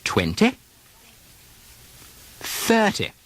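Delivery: British RP, each vowel sliding up or down in pitch; British words with pitch glide. Shown as a demonstration. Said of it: "do a little pitch glide".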